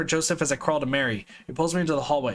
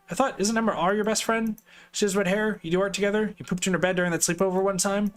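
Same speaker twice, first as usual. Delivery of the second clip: puzzled; 5 semitones higher than usual. Acted. Father questions daughter's story.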